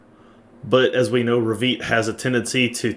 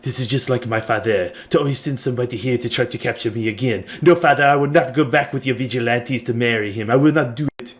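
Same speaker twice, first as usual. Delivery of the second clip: a petulant princess refusing her father; sulky young woman. Acted. Villain's daughter defying her father's vigilantes, mildly voiced defiance. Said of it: "you hear her muttering something about".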